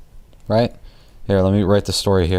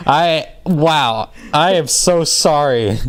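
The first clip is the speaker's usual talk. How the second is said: laughing apology; 6 semitones higher, slower than usual. Real, not acted. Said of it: "I apologize for that".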